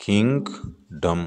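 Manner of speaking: किंगडम drawn out slowly in two syllables; syllable split. Shown as a demonstration. Teacher showing the class the syllables in किंगडम, drawn out. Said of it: "दो syllable आ रहे हैं".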